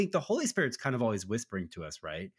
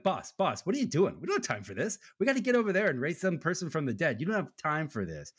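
exasperated disciples; 5 semitones higher than usual. Retold or imitated. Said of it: "the disciples are like".

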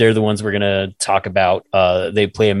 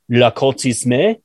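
attempted French; slower than usual. Shown as a demonstration. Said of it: "have your ears murdered".

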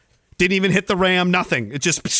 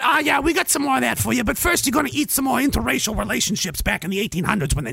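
mock peddler; 6 semitones higher than usual. Voices show makers answering the viewer.

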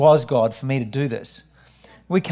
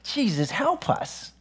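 soft, slow, higher plea; desperate prayer; 7 semitones higher, 7 dB quieter, slower than usual. Retold or imitated. Pastor retells praying for help after moving, hushed and high. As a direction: breathe it as a small helpless prayer.

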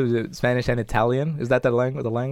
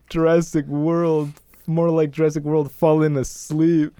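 slow, raised mocking delivery; mocking quip; 3 semitones higher, slower than usual. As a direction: draw out the punchline, mockingly. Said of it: "immediately being like".

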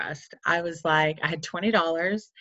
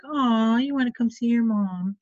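higher, cooing "aw" as a touched mother; flattered mom; 5 semitones higher than usual. Retold or imitated. Mom flattered that her child came to see her, flattered cooing. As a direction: imitate a mom gushing at her kid. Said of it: "she was flattered".

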